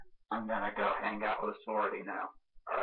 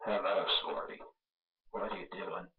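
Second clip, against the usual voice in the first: Scary Movie Ghostface voice; 2 semitones lower, 6 dB quieter than usual. Pretend. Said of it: "Scary Movie sounding version".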